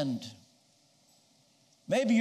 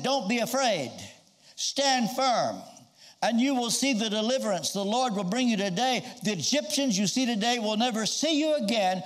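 bold, steady assurance to a frightened crowd; a leader calming his people, with firm confidence; brave Moses; 2 semitones higher than usual. Retold or imitated. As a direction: stand tall and speak with courage. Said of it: "showing how brave he would speak".

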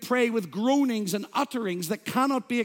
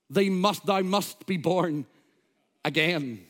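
put-on Welsh accent. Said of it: "in his wonderful Welsh accent".

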